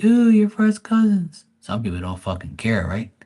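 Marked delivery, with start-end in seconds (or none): 0.0-1.4 higher, louder, slow judgmental ooh; scandalized gossip voice, drawn out; mock disgust. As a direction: clutch the pearls at the idea. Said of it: "some people be like".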